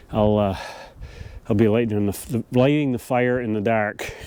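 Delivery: stumbling with a cold-stiff mouth; frozen mouth. Real, not acted. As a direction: lips too cold to shape words. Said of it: "Sorry, my mouth is freezing".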